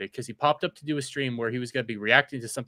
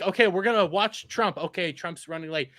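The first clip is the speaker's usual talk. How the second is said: upbeat streamer voice; 5 semitones higher, 3 dB louder than usual. Retold or imitated. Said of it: "he'll be like".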